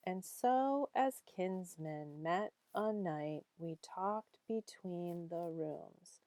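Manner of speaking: slow, measured poetry recital; poem reading. Acted. Teacher reading a Dickinson poem to students, measured recital. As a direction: recite the verse line by line, lingering on words.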